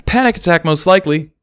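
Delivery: a mare explaining the colt's panic attack; calm diagnosis in a mare's voice. Acted. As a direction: give the verdict plainly, looking down. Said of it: "replied Barry".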